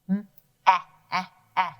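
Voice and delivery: drawn out E sound; "M-E-E-E" with the E held long; stretched short E. Shown as a demonstration. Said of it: "that E is making that short E sound".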